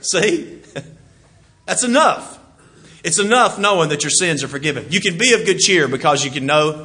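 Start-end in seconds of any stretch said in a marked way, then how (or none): 0.0-2.4 laughing through the words. Real, not acted. Preacher to congregation, laughing. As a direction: chuckle it out.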